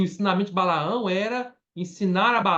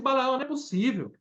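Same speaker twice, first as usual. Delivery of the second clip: angry king; 5 semitones higher, faster than usual. Retold or imitated. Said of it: "ficou bravo com ele, falou assim".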